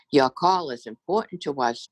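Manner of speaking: droning robotic voice; flat automated phone robot voice. Retold or imitated. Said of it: "drones the robotic voice".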